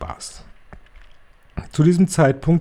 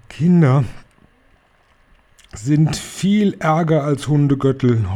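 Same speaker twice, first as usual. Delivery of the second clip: howling witch; 5 semitones higher than usual. Acted. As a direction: drag it out in a wailing howl. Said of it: "heulte die Hoch- und Großmeisterhexe".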